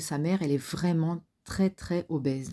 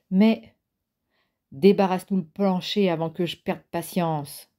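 mild threatening grumble, first word louder; growling; 2 semitones higher, 5 dB louder than usual. Acted. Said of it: "grogna Ron".

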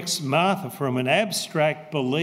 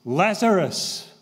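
raised, higher-pitched command; restrained calling-out, pitched up; loud cry; 4 semitones higher, 4 dB louder than usual. Retold or imitated. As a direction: call it out firmly, as if summoning someone. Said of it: "he cried out in a loud voice".

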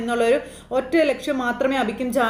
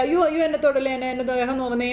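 imitated crying out in pain; 2 semitones higher than usual. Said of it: "ഭയങ്കര കരച്ചിലാ".

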